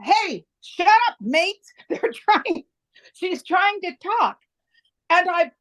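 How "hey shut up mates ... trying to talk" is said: put-on Australian accent. Ann telling noisy women on bus to hush, in an Australian accent. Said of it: "Australian lilt accent said".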